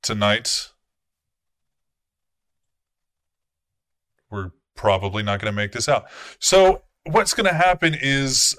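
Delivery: commanding prince addressing his court; a lightly voiced stern prince; the prince speaking. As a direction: speak as the vampire prince laying out the night.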